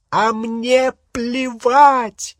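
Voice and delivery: very high, loud, slow scream; shrieking outburst. Acted. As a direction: scream it at him. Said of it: "завопила Гермиона".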